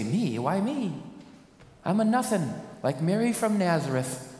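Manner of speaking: unworthy and amazed; a touch of Mary's wonder; Mary's disbelief. Acted. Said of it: "stand next to Mary and say".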